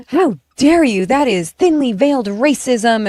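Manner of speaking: lightly voiced scandalized commenter clutching her pearls; mock outraged Karen. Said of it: "some pearl clutching Karen".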